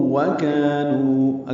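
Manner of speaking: وکانوا drawn out slowly with the waws joined; slow وکانوا showing the idgham; merged waw. Shown as a demonstration. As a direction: stretch وکانوا, waws blended. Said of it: "دونوں واؤں کا ادغام کریں گے".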